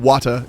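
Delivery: "Water" ending in A instead of R; British-style "Water" with an open final vowel; non-rhotic R. Shown as a demonstration. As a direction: say "Water" as "wah-tuh", R dropped. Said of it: "with an A at the end instead of the R".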